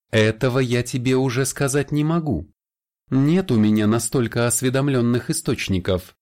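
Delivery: smirking vampire. Acted. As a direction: say it with a knowing smirk. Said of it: "с усмешкой сказал вампир". (с усмешкой)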